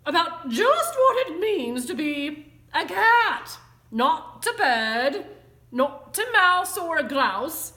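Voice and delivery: loud, high, heavily stressed scolding; stern lecture. A narrator's reading. Mother tells kitten to think about being a cat, lecturing. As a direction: hammer each item home like a fed-up mother. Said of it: "The lecture went on".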